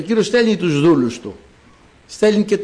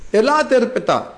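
high-pitched acted call; 7 semitones higher than usual. God summoning the reptiles, calling out. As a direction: summon them with raised pitch, not shouting. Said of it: "Φωνάζω".

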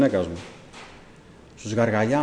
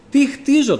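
higher, louder baffled repeat; bewildered insistence; 13 semitones higher, 6 dB louder, slower than usual. Retold or imitated. The dreamer asking the Lord again, higher and louder. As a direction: push the question harder, baffled. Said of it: "του λέω".

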